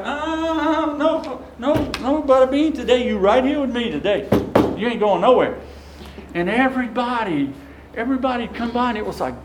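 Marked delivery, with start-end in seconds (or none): 0.0-5.6 playful priest. Retold or imitated. Priest stops the departing deacon.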